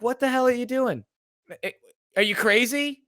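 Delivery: high-pitched incredulous scolding; mock appalled. Fans scolding whoever jinxed the game, mock appalled. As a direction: act out scandalized fans, building to a laugh. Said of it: "with such shock and appall".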